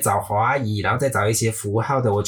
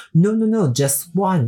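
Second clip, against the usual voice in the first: driver protesting; 9 semitones higher, slower than usual. Retold or imitated. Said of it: "他说".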